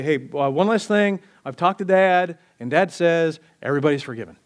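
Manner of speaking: lightly voiced, breezy Jesus announcing; Jesus casually telling a hillside crowd everyone's forgiven, breezy. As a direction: toss it off like a quick farewell. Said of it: "get them all together and say".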